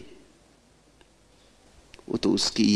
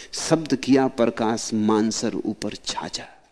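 slow verse recitation; slower than usual. Acted. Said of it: "ये बड़ा प्यारा वचन है".

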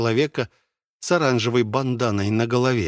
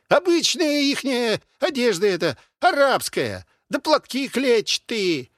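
put-on much higher, brash old soldier voice; a cocky veteran calling over the wall; soldier behind the wall; 11 semitones higher than usual. Unseen man behind the wall butting into the argument, brash.

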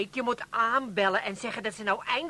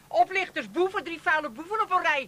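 higher, scornful name-calling; scornful scolding; 4 semitones higher than usual. Acted. Wife scolding the three schemers, scornful. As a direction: throw the insults at them.

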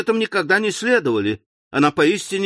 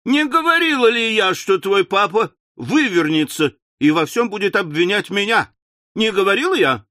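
aggrieved wail; 5 semitones higher than usual. Acted. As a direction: wail that she'll get blamed. Wife wailing, then cries.

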